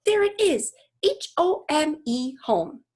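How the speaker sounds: lightly voiced eager daughter; excited girl. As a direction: spell it out in triumph. Julia triumphantly spelling to dad.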